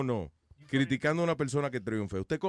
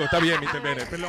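nervioso; 6 dB louder than usual. Acted. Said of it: "Ay, me tiene nervioso".

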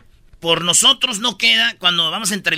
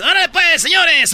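tag; 9 semitones higher, 3 dB louder than usual. Acted. MC excusing himself to crowd.

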